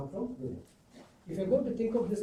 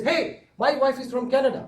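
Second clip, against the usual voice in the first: mock-shocked outburst, louder and higher; aghast owner; 6 semitones higher, 8 dB louder than usual. Joke-telling speaker voices the shocked bakery owner, louder and higher. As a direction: retell the owner's indignant gasp, hammed up a bit. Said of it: "The owner is aghast".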